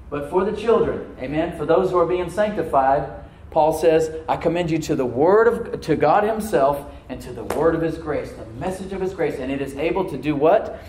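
loud scripture proclamation, key phrases stretched; projected, punchy preacher's voice; emphatic preaching. Real, not acted. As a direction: build in force as you preach the promise. Preaches the verse with rising force.

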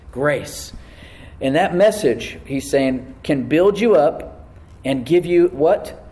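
projected preacher's delivery; emphatic preaching. Real, not acted. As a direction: preach the verse to the congregation with weight. Preaches on a scripture verse.

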